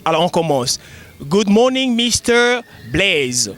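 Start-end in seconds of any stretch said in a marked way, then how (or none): 1.2-3.5 practice greeting. Shown as a demonstration. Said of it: "une petite pratique".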